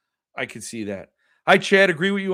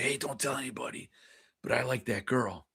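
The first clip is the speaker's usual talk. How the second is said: hushed, lower retold confession; confiding a secret; 3 semitones lower, 9 dB quieter than usual. First grader confiding in a playground friend, confiding a secret. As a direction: drop your voice as if sharing a secret.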